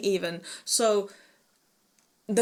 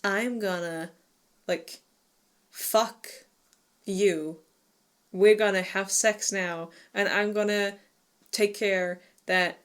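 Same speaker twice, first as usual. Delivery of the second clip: mock sultry stranger. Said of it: "very sultry".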